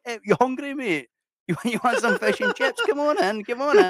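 loud, very high mock invitation; overfriendly random stranger. Random Scottish stranger inviting a passer-by in, hammed-up loud eager welcome. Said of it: "some random people like".

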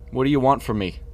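loud, high, alarmed question; asked loudly. Acted. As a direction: call it out loud and scared. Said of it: "Preston asked loudly".

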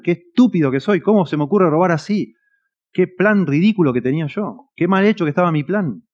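mock the thief lamenting his botched plan; whiny self-pity. Preacher imitates a thief crying over a bad heist, mock whine. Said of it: "Y llora, y llora".

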